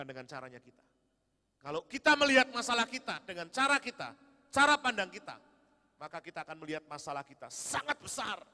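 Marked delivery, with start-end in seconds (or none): 1.6-8.4 loud, high preaching burst; emphatic preaching. Real, not acted. Preacher stresses seeing problems big. (seruan khotbah yang keras dan tinggi)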